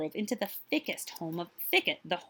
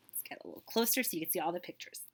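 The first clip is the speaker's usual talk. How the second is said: whisper; 7 dB quieter, faster than usual. Real, not acted. Storyteller gathers children closer.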